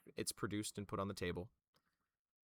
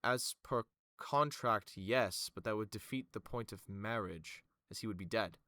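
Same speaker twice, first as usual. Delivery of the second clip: Vima. Acted. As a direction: concede the clause, then correct drily. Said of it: "you watch as Vima goes".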